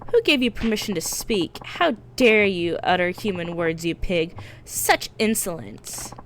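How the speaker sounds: haughty scolding. Acted. Dominatrix scolding client.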